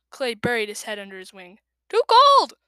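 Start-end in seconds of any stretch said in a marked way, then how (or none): 1.9-2.5 put-on high, loud childish complaint; whining protest. Clay protesting the river, high loud whine. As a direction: wail it like a sulky kid.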